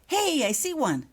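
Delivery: high, loud excited call; boy shouting with excitement. Acted. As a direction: call out thrilled at spotting it. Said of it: "Mark shouted excitedly".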